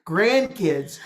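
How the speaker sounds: slow, laughing through the words. Real, not acted. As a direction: let the laugh spill into it. Laughing about grandkids visit.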